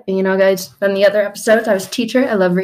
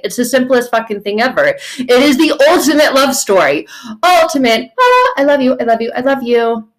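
rising, louder gushing about love; excited gush; 5 semitones higher, 3 dB louder than usual. Acted. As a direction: burst out with joy at the love story. Exclaiming God's love to a doubter.

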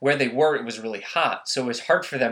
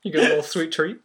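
high, giggly cutesy voice; silly sweet-treat voice; 3 semitones higher than usual. Pretend. Teasing her cohost in a high cutesy voice. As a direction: coo it high like a candy-obsessed kid. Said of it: "Stop talking like that".

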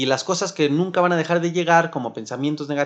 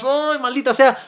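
high, loud exasperated burst; frustrated curse; 9 semitones higher, 4 dB louder than usual. Retold or imitated. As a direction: snap it out like a stuck phone drove you mad. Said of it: "te estresas y estás". (maldición exasperada, aguda y fuerte)

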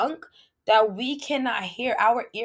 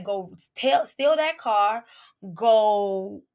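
flesh tempting; slower than usual. Retold or imitated. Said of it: "Our flesh will be like".

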